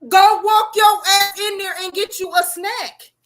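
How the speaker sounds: slow, loud telling-off; loud scolding. Real, not acted. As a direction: bark it at him slowly. Heated argument, telling him off.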